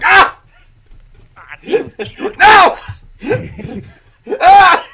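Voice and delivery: high screaming wail of despair; anguished scream. Retold or imitated. Scorsese screaming in agony over a superhero movie. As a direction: shriek in horror as if your life's work is ruined. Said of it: "Somewhere Martin Scorsese is going".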